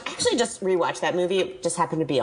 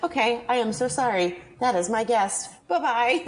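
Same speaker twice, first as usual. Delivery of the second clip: higher, light mock-polite farewell; breezy leaker; 7 semitones higher than usual. The leaker dismissing everyone, in a higher mock-polite voice. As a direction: wave them off too breezily. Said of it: "he's like".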